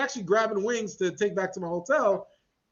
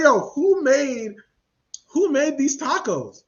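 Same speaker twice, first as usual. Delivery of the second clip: higher, louder, slow demand; 5 semitones higher, 5 dB louder, slower than usual. Retold or imitated. Demanding at the drive-thru window who made these tacos. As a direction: call out the staff.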